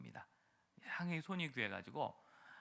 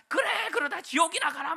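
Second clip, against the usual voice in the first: very high, much louder shout through a laugh; mock screamed curse; 12 dB louder than usual. Angry evangelist yelling at a refuser, laughing mock scream. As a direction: bellow the curse while laughing at it. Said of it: "막 소리 지르고 가고".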